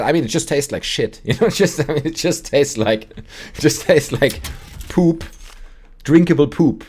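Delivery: high, loud, giggly retelling; laughing acted verdict. Storyteller playing the reporter tasting the liquor, laughing disgust. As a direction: break up laughing while quoting her.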